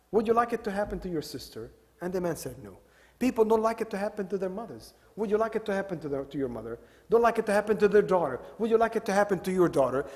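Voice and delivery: put-on kindly asking a young man, softly; gentle questioning. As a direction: coax him gently, as a kind teacher. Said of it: "very kindly and gently".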